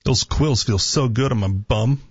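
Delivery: normal talking voice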